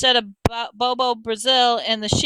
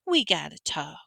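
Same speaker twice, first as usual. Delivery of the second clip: wicked witch; 5 semitones higher than usual. A narrator's reading. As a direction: toy with them like a wicked witch. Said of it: "just like a wicked witch".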